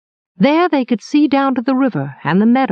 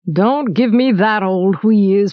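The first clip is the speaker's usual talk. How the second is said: derisive; slower than usual. Acted. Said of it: "said the baker with a derisive snort".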